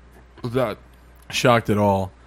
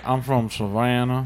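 put-on slow, thick Southern accent; drawn-out Southern drawl, a bit hammed up; 3 dB quieter, slower than usual. Host mocking a Savannah accent, thick Southern accent. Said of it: "really thick Southern accent".

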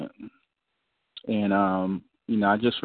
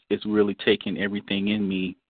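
choppy dropping phone audio; bluetooth cutting out. Real, not acted. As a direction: voice breaking up on call. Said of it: "You're cutting out".

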